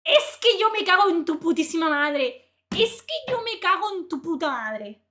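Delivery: loud furious Spanish curse; enraged at the critic, swearing in Spanish. Real, not acted. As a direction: spit the curse out.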